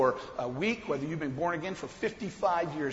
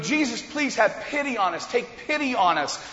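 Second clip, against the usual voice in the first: raised, imploring mock cry; retold yell; 5 semitones higher, 4 dB louder than usual. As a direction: imitate lepers calling out for pity, pitched up. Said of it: "They yelled something different".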